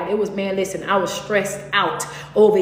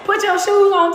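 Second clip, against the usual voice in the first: laughing; 10 semitones higher, 4 dB louder than usual. Retold or imitated. Repeating the happy shoe moment.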